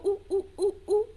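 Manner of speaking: high, short oohs; monkey hoots. Shown as a demonstration. Teacher asking whether zebras sound like this, high monkey oohs. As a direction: hoot quickly like a monkey. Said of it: "zebras that go".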